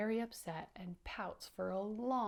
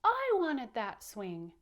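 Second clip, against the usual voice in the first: slow, louder acted whine; crying pout; 3 semitones higher, 5 dB louder, slower than usual. Teacher voicing upset Powder who missed his swing, crying pout. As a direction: wail it slowly, leaning hard on the first word. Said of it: "he cried and cried and cried and said".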